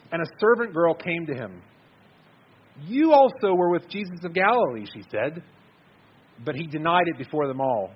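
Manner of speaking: measured, solemn Bible reading; scripture reading. Acted. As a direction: read the passage like a pulpit reading. Preacher reads Matthew scripture aloud.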